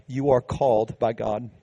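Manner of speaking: "You are called by God" repeated softly and gently; the same line echoed quietly to the church. Acted. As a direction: drop the volume and let it sink in. Preacher repeats key point.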